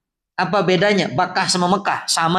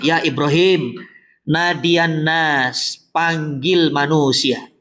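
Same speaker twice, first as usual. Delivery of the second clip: solemn divine command; 3 semitones lower, much slower than usual. Retold or imitated. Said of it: "Allah perintahkan kepada Ibrahim".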